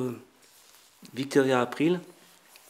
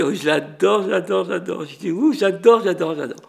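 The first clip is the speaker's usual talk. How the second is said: hammed-up, higher and louder gushing; gushing adoration; 5 semitones higher, 6 dB louder than usual. Restaurateur gushes to the lady about the actress, hammed-up excitement. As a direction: overdo the adoring fan, repeating it breathlessly.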